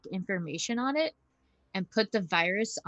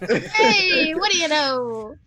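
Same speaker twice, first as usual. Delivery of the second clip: pleasantly surprised; 9 semitones higher, 9 dB louder, much slower than usual. Real, not acted. Surprised at seeing Neptune.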